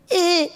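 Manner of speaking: high squeezed grunt; strained grunt. Retold or imitated. Snake charmer grunting under the python, high squeezed grunt. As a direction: squeak as if crushed. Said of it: "he'd make a sound".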